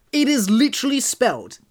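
baffled, emphatic objection; incredulous protest. Real, not acted. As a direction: protest it as plainly absurd. Protesting the surprising pronunciation.

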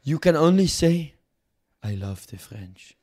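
lightly put-on French accent, haughty; a smug French dealmaker, mock accent. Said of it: "Fuck this French accent".

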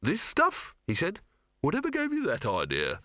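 high, sarcastic sneer; withering scorn. Acted. Alchemist sneers at his visitor, sarcastic. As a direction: drip contempt on a silly question. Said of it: "gave him a withering look".

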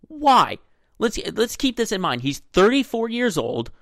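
exasperated. Real, not acted. Exasperated at Tebow signing.

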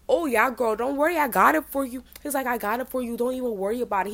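flamboyant guy. Retold or imitated. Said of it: "definitely extremely flamboyant".

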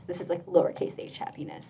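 hushed, downplaying the lowercase kind; a quick throwaway whisper; whispered aside. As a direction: drop to a whisper for the small h. Contrasts capital and lowercase happiness.

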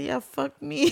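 high, loud mock fan shout; mock rowdy fan. Friend mimicking a Bills fan at a tailgate, hyped shout. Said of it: "He said".

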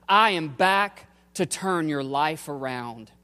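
a firm proclamation of "I am back"; emphatic declaration. Acted. Preacher voices the resurrection's message to the church, emphatically. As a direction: hit "back" hard, then land "turn your life around". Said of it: "says emphatically and eternally".

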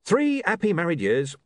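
cheerful. A narrator's reading. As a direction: chirp it happily about married life. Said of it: "said Arthur cheerfully".

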